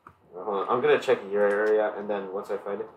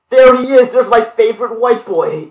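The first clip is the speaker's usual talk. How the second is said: loud, high, hyped-up shout; excited greeting; 10 semitones higher, 8 dB louder than usual. Real, not acted. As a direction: greet a buddy like a hype man. Greets his friend arriving in game.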